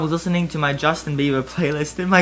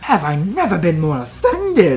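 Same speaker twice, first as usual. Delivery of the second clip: higher, louder indignant rant; offended outburst, pitched up; mild shriek; 7 semitones higher, 4 dB louder than usual. Acted. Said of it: "I shrieked".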